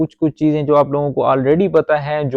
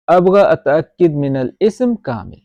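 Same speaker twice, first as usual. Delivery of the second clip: slow repeat; slower than usual. Shown as a demonstration. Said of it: "repeats the model sentence".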